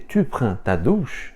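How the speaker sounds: "Tu prends ta douche" slowly, rising at the end; slow example question lifting on "douche"; question intonation. Shown as a demonstration. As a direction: ask "Tu prends ta douche" by tune alone. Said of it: "usando só a entonação".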